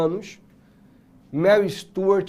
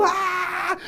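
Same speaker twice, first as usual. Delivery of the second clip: mock crowd scream; 10 semitones higher, 4 dB quieter than usual. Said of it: "E todo mundo gritando".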